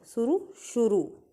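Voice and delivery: शुरू first quick, then with a held final oo; short then long. Shown as a demonstration. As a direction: contrast suru and shuroo slowly. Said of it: "रू की मात्रा का देर तक होगा".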